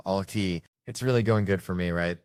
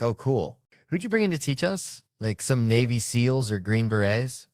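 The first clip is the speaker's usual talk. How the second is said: eager cop; 4 semitones higher than usual. Retold or imitated. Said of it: "You're like".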